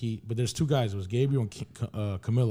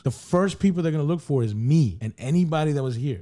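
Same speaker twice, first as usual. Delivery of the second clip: emphatic mock telling-off, raised in places; retold angry scolding; 3 semitones higher, 3 dB louder than usual. Retelling her warning that he is an American, heated scolding. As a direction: lay down the law as she did, point by point. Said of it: "She's pissed off at me".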